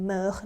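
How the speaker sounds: MEURT as 'muhr', silent t; pronunciation demo. Shown as a demonstration. Teacher showing four forms sound alike, pronunciation demo. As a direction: say MEURT with a rounded vowel and no t. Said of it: "สี่ตัวนี้ออกเสียงเหมือนกันเช่นเดิม".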